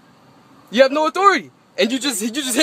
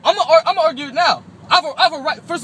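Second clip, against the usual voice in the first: fast, higher, laughing as he talks; 6 semitones higher, faster than usual. Real, not acted. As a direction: laugh through the words. Laughs while arguing with police.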